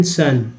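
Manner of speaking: सन with a short "uh" vowel; short A sound. Shown as a demonstration. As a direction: say सन as "sun". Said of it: "आ का उच्चारण हुआ".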